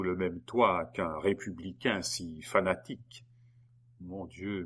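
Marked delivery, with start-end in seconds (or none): 4.0-4.6 a soft, hushed murmur. A narrator's reading. Geneviève murmuring in despair to herself. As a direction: breathe it out under the breath. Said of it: "murmura Geneviève".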